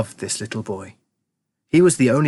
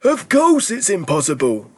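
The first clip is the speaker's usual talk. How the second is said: excited cry; 8 semitones higher than usual. A narrator's reading. Grandpa Joe answering doubting Charlie, high and excited. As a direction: cry out in gleeful agreement. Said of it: "cried Grandpa Joe".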